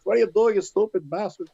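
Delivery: high-pitched angry outburst, acted out; losing his mind. Tony swearing at the wrestlers over the stuck van, losing his mind. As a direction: imitate someone cursing out a screwup. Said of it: "losing his mind".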